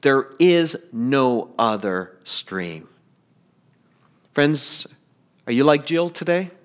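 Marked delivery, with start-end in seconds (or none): 0.0-2.9 slow, grave lion declaring it; the lion's solemn voice. Retold or imitated. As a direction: say it slowly, like a final verdict. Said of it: "The lion says".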